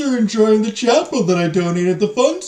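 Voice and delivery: put-on booming, slow, high French accent; a pompous Frenchman's voice, loud and drawn out; loud French gentleman. Pompous French patron booming at two ladies, loud French accent. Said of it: "speaking at a jarringly loud volume".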